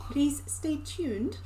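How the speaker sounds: "Please stay tuned" slow and overly crisp; over-pronounced. Shown as a demonstration. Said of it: "Over pronunciation now".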